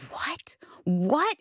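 breathless whispered disbelief; awed whispered what; stunned whisper. Retold or imitated. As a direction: whisper it as the verse sinks in. Reading Matthew five, stunned.

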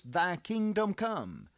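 slow, hopeful quote. Shown as a demonstration. Preacher voicing what hope says, slow and lifted. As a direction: linger on "Thy kingdom come" as the voice of hope. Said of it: "Hope says".

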